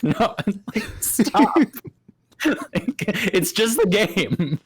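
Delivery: high, laughing denial; laughing protest. Real, not acted. Player denying through laughter, pitched high.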